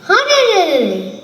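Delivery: high, loud whooping bandit yell; a cackling dacoit battle whoop; bandit war cry. Acted. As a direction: cry it out like a charging robber band. Bandits raise their war cry.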